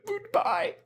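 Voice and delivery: squeaky high farewell; high-pitched goodbye. Real, not acted. Host signs off caller.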